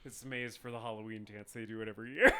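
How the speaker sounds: low, rapid matter-of-fact patter; deadpan explanation. Retold or imitated. Imitating a girl explaining the school maze, matter-of-fact. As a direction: rattle it off, unimpressed.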